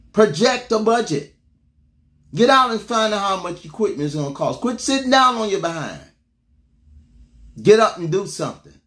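barked commands, drill sergeant style. Acted. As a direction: order them like a drill sergeant. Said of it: "I might sound like a drill sergeant".

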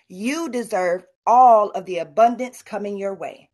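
sincere affirmation. Shown as a demonstration. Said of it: "Repeat after me".

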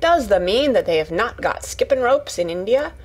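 lightly voiced Yorkshire lass, incredulous then eager; a hint of amazed country chatter; astonished Yorkshire Martha. Martha about to show Mary skipping, mildly astonished Yorkshire voice.

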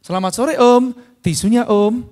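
polite sales greeting. Shown as a demonstration. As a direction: greet the driver like a proper seller. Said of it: "tambahin satu lagi".

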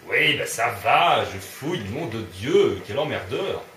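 irritated comeback with punched, stretched words; exasperated retort. Real, not acted. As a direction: fend off a nagging companion. Snapping back at nagging game character.

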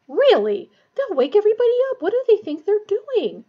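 high, loud, hurried indignation; indignant outburst. A narrator's reading. Matron fuming at voices waking everybody up, indignant. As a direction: burst out crossly, pitch leaping up. Nurse exclaims at noise outside.

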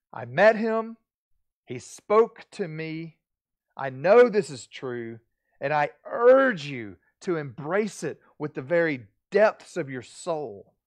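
loud, slow, spaced-out testimony; earnest preacher's appeal, deliberate and loud; impassioned urging. Acted. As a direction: press each short phrase home forcefully. Acting Paul urging Timothy.

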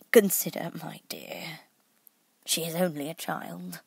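mild, hesitant plea; a touch of meek nervousness; timid. A narrator's reading. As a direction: plead timidly, trailing down. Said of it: "timidly said".

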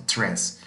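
tres said like the Spanish word tres, with a tapped r; teacher models the middle syllable tres; syllable demo. Shown as a demonstration. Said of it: "se pronuncia como si estuviéramos diciendo tres".

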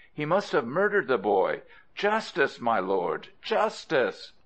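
high-pitched appeal to a judge; aggrieved storybook complainant; urgent plea. Acted. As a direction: plead the case, leaping high on each cry for justice. Father pleads to judge for justice.

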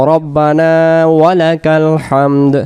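slow, drawn-out recitation with held vowels; prayer recitation. Shown as a demonstration. Teacher offering the allowed variant, slow recitation. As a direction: recite it word by word, sounding the final দ. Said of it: "যদি আমরা বলি".

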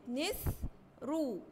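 "نسرو" split as nis, then ru; syllable by syllable. Shown as a demonstration. Teacher analyses the next word, "نسرو" split into syllables. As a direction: say "نس", pause, then "رو". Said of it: "لما نيجي نحللها".

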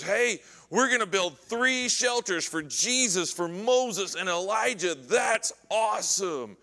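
eager Peter. Acted. Peter pitches three shelters at the Transfiguration, eager. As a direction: gush mildly as an over-keen disciple.

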